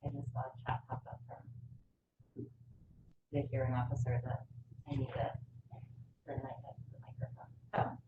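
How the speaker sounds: muffled behind a mask; speaking through a mask; through a face mask. Real, not acted. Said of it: "you're speaking through a mask".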